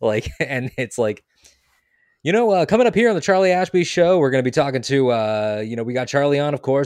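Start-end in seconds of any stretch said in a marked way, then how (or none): 2.7-6.9 packaged on-air radio announcer voice. Explaining what a radio voice is, a mock show intro in radio announcer voice. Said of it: "a radio voice is when you can tell that the person is gone and that they've more transformed into a product".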